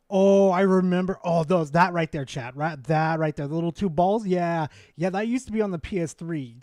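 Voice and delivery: loud, excited reminiscing. Real, not acted. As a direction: shout out the memory. Loud nostalgic outburst.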